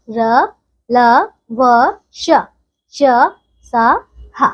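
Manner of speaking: each consonant said apart with a pause after it; consonant recitation. Shown as a demonstration. Teacher reciting the consonants to children, one by one. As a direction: recite the letters for the class to repeat. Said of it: "क से लेकर ह तक".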